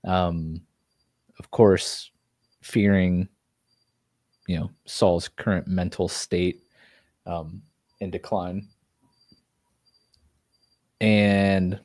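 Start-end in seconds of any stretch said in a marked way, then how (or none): 4.5-8.7 talking through hiccups; hiccuping. Real, not acted. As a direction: hiccups breaking the words. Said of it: "sorry, these hiccups".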